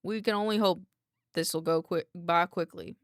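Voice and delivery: put-on light country accent, formal apology. Doctor apologizes to a contained researcher, light country accent. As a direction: apologize politely with a hint of country. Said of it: "give him a country accent".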